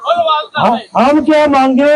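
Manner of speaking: calling out a chant to the crowd; first slogan call, building up; booming political rally speech. Real, not acted. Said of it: "मेरे नारों का जवाब देंगे".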